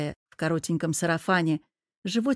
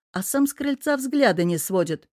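usual speaking voice

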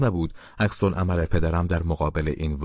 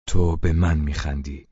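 a mildly raised, indignant challenge; angry shout; 3 dB louder than usual. Acted. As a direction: demand it of the laughing actor. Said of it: "با عصبانیت فریاد زد".

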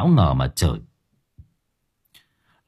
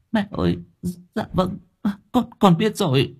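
higher, soft cowed reply; timid obedience; 10 semitones higher, 3 dB quieter than usual. Acted. Daughter-in-law timidly obeying grandmother. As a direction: give in fearfully.

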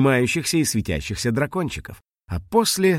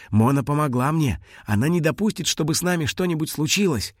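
higher, earnest small creature; lightly voiced dragon, sure of her friend; confident little dragon; 5 semitones higher than usual. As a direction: insist loyally in a small voice.

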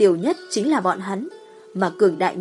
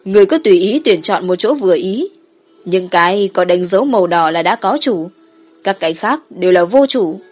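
dragon voice; 3 dB louder than usual. Acted. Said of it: "Kim Giáp Long Hoàng đối Tử Tĩnh cười nói".

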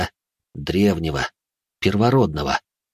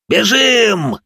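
high, loud, breaking yell of panic; a cry of pure fear; terrified shout; 13 semitones higher, 5 dB louder than usual. Acted. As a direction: scream at everyone to run. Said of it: "кто-то крикнул, голос срывался от ужаса".

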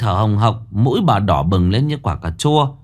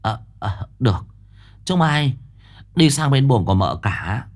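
flustered; 2 semitones higher than usual. Acted. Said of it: "Bà lúng túng".

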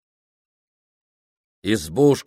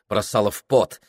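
ordinary delivery, nothing marked

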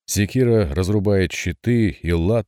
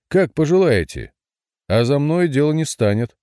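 louder, higher taunting echo; higher mocking repeat; 7 semitones higher, 4 dB louder than usual. A narrator's reading. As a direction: throw it back even bolder. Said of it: "насмешливо сказал гроссмейстер". (насмешливо, громче и выше)

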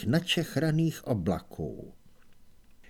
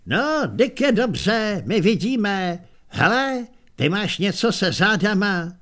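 put-on old barbarian; 5 semitones higher, 4 dB louder than usual. Old barbarian mocks Kohen's pose.

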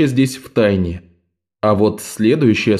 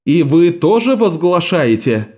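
stern question; 6 semitones higher than usual. A narrator's reading. Judge questions novices sternly.

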